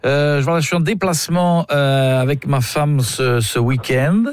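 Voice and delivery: overly polite, pompous customer voice; lightly voiced pompous client phoning a hotel; posh prank caller. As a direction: play the fussy gentleman booking a room.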